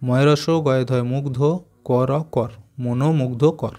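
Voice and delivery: syllable by syllable, মনো, মুগ্ধ, কর split apart; staccato. Shown as a demonstration. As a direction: spell out মনোমুগ্ধকর in separate beats. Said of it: "এটা দেখো কেটে কেটে উচ্চারণ করবে".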